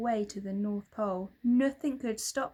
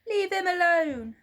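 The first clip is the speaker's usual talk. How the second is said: higher, louder scream; 9 semitones higher, 10 dB louder than usual. A narrator's reading. William screaming at the hunter to leave Santa alone. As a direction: scream to protect him. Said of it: "screamed William".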